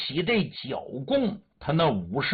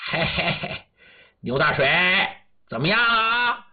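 menacing chuckle, then a taunting question; vicious, laughing; faster than usual. Acted. Warlord greets his prisoner before torture, vicious and laughing. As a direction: chuckle nastily and swing up on the question. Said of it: "恶狠狠的， 然后还笑".

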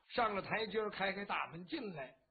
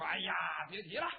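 exasperated outburst; 3 semitones lower, faster than usual. Acted. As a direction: blurt it out, fed up and tipsy. 翟让 complains about Yangzhou. (不耐烦地脱口而出)

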